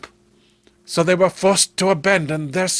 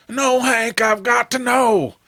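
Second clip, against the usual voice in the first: a higher, pressing insistence; desperate brother; 7 semitones higher than usual. Acted. Clem to Hank, refusing to turn back, pleading. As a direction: push it out, he must know.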